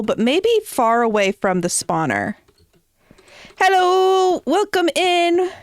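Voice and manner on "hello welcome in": high, bright streamer greeting; cutesy greeting voice. Pretend. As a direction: chirp a cheery hello.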